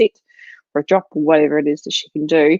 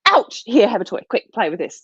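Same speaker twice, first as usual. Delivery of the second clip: mock hurried owner; 4 semitones higher than usual. Mocking owners who rush a toy in, quick and fading. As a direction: imitate a panicky owner shoving a toy.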